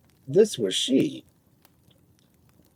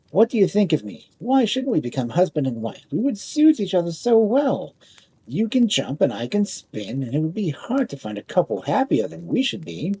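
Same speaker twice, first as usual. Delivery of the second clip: lightly voiced boastful top, a bit higher; a proud spinning top showing off; 4 semitones higher than usual.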